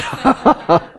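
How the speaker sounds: a bright burst of laughter at his own punchline; high laugh. Real, not acted. Preacher laughing at his own dry story, high falling laugh. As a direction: laugh high and let it fall away.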